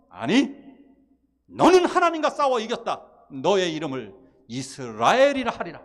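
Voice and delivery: God proclaiming. Retold or imitated. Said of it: "하나님이".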